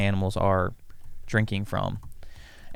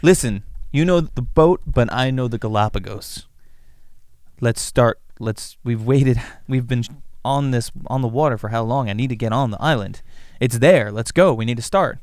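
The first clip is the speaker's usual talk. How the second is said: impatient explorer; 3 semitones higher than usual. Acted. Darwin pushing his friend to land, lightly voiced impatience. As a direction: press to get on the island now.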